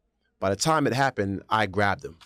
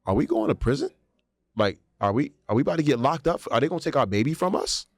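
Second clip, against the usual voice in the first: panicked; 5 semitones higher, faster than usual. Retold or imitated. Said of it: "We're saying to ourselves".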